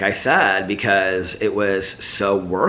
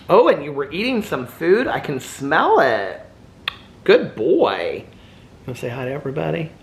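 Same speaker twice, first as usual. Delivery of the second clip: high, cooing sing-song pet voice; 5 semitones higher than usual. Real, not acted. Owner calling her dog over to the mic, high cooing pet talk. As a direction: coax the little dog over sweetly.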